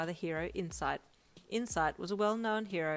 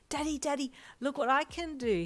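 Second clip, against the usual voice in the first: put-on high, loud eager boy; excited child; 9 semitones higher, 6 dB louder than usual. A narrator's reading. Boy eagerly shows his father his quirk, high and loud. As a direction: show off with glee. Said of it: "he said excitedly".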